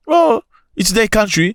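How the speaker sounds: high slow Oh it's their country; slow mocking drawl. Shown as a demonstration. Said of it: "You must go fix your country".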